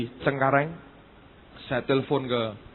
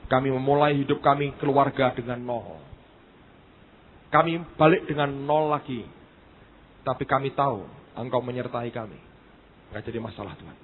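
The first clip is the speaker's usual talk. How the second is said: retold prayer; 4 semitones lower than usual. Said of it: "Saya berkata, "Tuhan".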